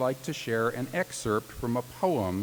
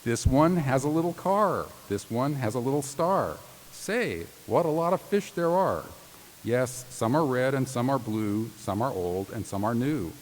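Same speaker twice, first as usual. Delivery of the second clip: sing-song Seuss reading. Acted. Reading Dr. Seuss to law graduates, sing-song. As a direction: read it like a bedtime picture book. Reads Dr. Seuss poem aloud.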